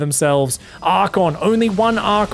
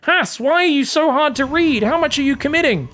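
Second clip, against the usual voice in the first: voicing a player's doubts; 10 semitones higher, 4 dB louder than usual. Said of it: "He's going".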